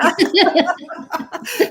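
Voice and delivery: hearty laugh. Real, not acted. Big laugh.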